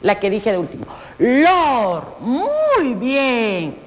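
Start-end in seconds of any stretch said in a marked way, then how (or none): 1.2-2.2 Lor said alone, rolling into the final r; teacher isolating a syllable; syllable demo. Shown as a demonstration. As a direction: say Lor as one crisp syllable. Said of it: "¿Cuál es la última sílaba?".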